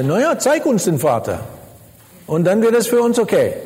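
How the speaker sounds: breezy mock request, lilting up at the end; nonchalant disciple. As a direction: shrug it off like an easy condition. Mimics Philip's casual request. (lässig nachgeäffte Bitte)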